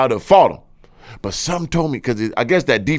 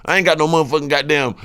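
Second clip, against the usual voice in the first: talking crazy; 2 semitones higher than usual. Retold or imitated. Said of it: "Boy, I'm talking crazy".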